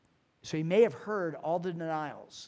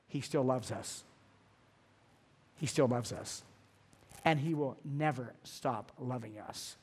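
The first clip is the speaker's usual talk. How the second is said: softer, hushed reassurance after the build-up; tender assurance; 3 semitones lower, 4 dB quieter than usual. Real, not acted. Preacher assures the congregation they are loved, tender. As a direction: let the truth land gently and quietly. Staggering truth of unfailing love.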